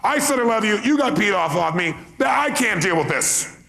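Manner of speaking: high, loud hammed-up huff; mock exasperation. Speaker voicing someone offended by a rejected I love you, mock exasperated and loud. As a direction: throw up your hands in mock frustration.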